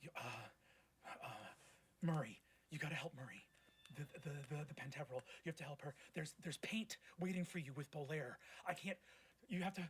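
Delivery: halting, frightened plea to his sibling; panicked brother. Acted. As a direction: stammer through it in a lightly voiced panic. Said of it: "He goes".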